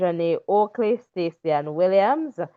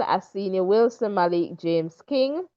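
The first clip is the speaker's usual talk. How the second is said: ordinary talk, nothing marked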